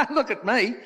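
high, loud, indignant punchline; mock-indignant Australian widow; Australian wife. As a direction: protest like an Aussie wife, half laughing. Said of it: "The Australian's wife said".

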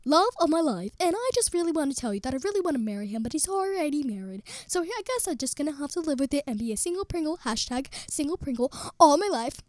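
lightly mocked lovesick virtual assistant; Siri. Lovesick Siri lamenting single life, mock imitation. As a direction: mimic an assistant pining over a married man. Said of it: "I am Siri".

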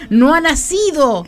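slow, grand, solemn; mock medieval proclamation. Aunt Aurora quoted, slow grand proclamation. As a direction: declaim it like holding up a book. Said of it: "como levantando un libro".

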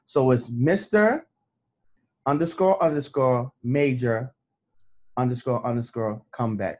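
slowly spelled out, each part separate; slow careful spelling. Shown as a demonstration. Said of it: "I'm saying it wrong".

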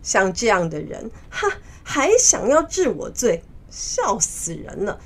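mildly indignant, scoffing in places; angry. Acted. Monkey King scorns the Jade Emperor's charge, mildly angry. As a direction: protest the insult with some heat. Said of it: "很生气地说".

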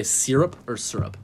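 syrup first as SEER-up, then SUR-up; two pronunciations. Shown as a demonstration. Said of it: "that's a big debate".

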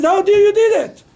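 sharp, high, loud accusing question; angry Moses. Acted. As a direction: demand an answer as a furious Moses. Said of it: "He was angry".

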